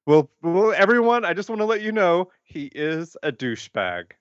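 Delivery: excited announcement. Real, not acted.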